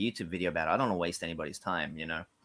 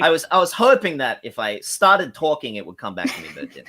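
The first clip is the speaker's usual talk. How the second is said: embarrassed laugh; 7 semitones higher, 10 dB louder than usual. Real, not acted. Embarrassed after blanking.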